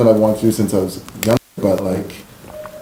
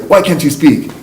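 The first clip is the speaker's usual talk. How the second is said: imitated auntie, pointed and a bit higher; mimicking scolding relatives; 5 semitones higher, slower than usual. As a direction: lightly voice a puzzled, challenging elder. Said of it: "then they'd be like".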